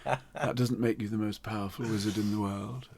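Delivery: giggling through a mocking retort; laughing. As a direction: laugh while teasing a rival. Mocking rival while laughing.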